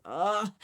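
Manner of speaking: exasperated groan letting feeling out; groan, releasing the emotion; groan of release. Shown as a demonstration. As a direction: let out a heavy "ugh". Releases the feeling just voiced.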